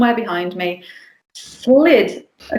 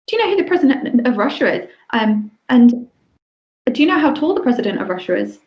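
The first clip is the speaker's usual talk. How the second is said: put-on rapid child questions; 2 semitones higher, faster than usual. Little camp boy quizzing a tired adult, fast eager childlike voice.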